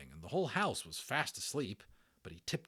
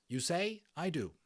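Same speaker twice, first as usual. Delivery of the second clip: Bright Stars repeating; 9 semitones higher than usual. Acted. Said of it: "that's Bright Stars".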